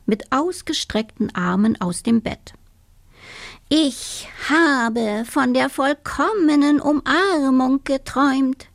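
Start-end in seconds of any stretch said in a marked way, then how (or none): 3.7-8.7 toad cries out his dream, higher; gleeful toad calling out; excited exclaim. Acted. Toad wakes and exclaims about his dream, higher and excited. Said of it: "rief er aus".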